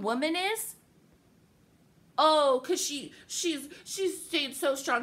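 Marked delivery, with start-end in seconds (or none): 2.2-5.0 mocking, drawn-out admiration; mock-impressed; sarcastic praise. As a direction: pretend to admire her, dripping sarcasm. Mocking praise of a strong woman.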